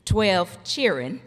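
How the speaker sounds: a touch of down-home Georgia drawl on twelve cheerin'; lightly imitating a country Georgia mother; Georgia country accent. Speaker's mother boasting of her twelve children, light Georgia accent. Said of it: "in her down-home country Georgia accent".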